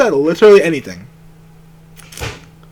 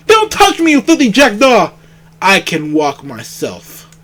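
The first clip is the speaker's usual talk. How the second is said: indignant protest. Acted. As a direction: snap at the guard. Baron resisting arrest.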